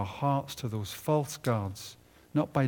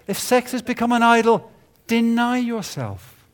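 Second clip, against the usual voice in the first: forceful preaching; 10 semitones higher, 9 dB louder than usual. Real, not acted. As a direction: drive the point home.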